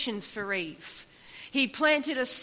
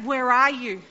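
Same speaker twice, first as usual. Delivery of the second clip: a louder call of "Where are you?"; 8 dB louder than usual. Acted. God calls again to hiding Adam, louder call. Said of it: "But he calls out".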